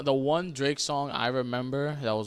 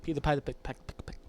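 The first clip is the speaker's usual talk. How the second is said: voice cutting out; faster than usual. Real, not acted. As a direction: sound dropping out mid-phrase. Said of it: "Why did I go silent?".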